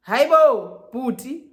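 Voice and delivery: high, loud mock outrage; loud protest. Girlfriend answering boyfriend's demand for keys, loud protest. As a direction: burst out in retold disbelief. Acted shocked reply to his demand.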